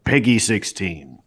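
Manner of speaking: flat, slow British announcer voice; deadpan British accent. Shown as a demonstration. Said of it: "deadpanned British voice".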